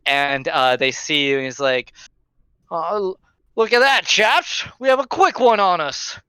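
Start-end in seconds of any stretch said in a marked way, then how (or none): 2.7-6.2 mocking drunk. Drunk man mocks the dodging stranger, high sneer. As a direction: jeer at how quick he is.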